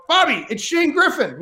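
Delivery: slow, high call of the name. Retold or imitated. Calling to De Niro across the villas, slow and high. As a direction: call out, drawing it out.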